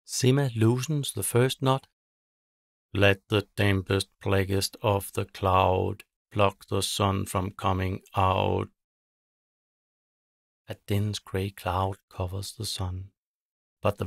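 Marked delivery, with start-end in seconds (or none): 2.9-8.7 a witch chanting over her knotted string; witch incantation. Acted. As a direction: intone the curse like a ritual. Witch casting a spell.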